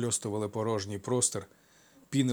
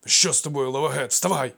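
urgent call; 4 semitones higher, 7 dB louder than usual. Acted. Servant urges master to get up.

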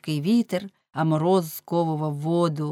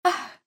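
exclaimed gasp. A narrator's reading. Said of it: "вигукнула вона".

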